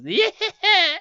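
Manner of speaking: high, loud hag's cackle; crone cackle. Acted. Crone cackles while driving her cart away. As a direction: cackle as you drive off. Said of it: "as she cackles".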